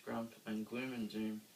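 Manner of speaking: usual speaking voice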